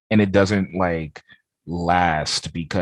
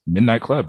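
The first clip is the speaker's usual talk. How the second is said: "Midnight Club" pitched up, higher and a bit punchy; odd way of saying Midnight Club; 5 semitones higher, 4 dB louder than usual. Real, not acted. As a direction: hit "Midnight Club" high, as a quick checking echo. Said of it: "why'd you say it like that".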